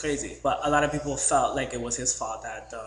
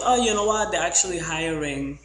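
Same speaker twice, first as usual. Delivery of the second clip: hyped-up guy; 4 semitones higher, 6 dB louder than usual. Retold or imitated. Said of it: "So he goes".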